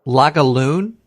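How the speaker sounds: Lagavulin as a questioning "Laga-loon"; mispronounced Lagavulin. Real, not acted. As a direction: say Lagavulin ending in "loon", unsure.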